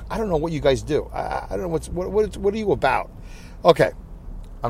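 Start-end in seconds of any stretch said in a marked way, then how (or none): none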